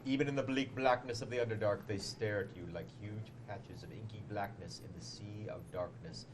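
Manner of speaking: ominous dramatic reading. Shown as a demonstration. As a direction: read it like a creepy storyteller. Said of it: "I will read it in dramatic voice".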